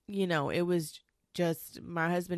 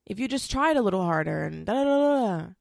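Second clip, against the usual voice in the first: mock angry rant; 3 semitones higher, 6 dB louder than usual. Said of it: "I was so angry at him because I was like".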